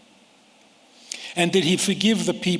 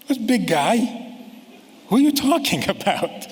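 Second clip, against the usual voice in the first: put-on indignant kid; 7 semitones higher than usual. Eleven-year-old snapping back at parent, higher and indignant, laughing. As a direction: play the offended kid who won't be called big guy. Kid rejecting "big guy.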